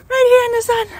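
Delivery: excited. Real, not acted. Loud happy call.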